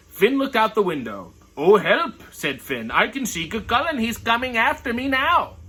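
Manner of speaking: lively read-aloud voice, characters lightly voiced; story reading. Reading a picture book to viewers, lively storytelling.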